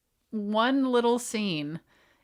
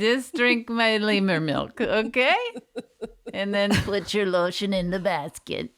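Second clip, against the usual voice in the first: lemur call. Pretend. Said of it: "is that your lemur impression?".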